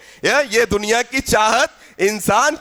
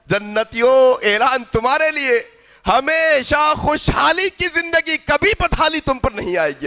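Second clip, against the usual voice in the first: mildly raised angelic proclamation; calling out. Acted. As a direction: announce it with stretched opening words. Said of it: "پھر پکارنے والا پکار کر کہے گا".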